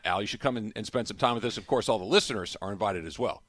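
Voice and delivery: upbeat host announcement; event plug read. Acted. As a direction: invite listeners like a radio plug. Plugs a live event appearance.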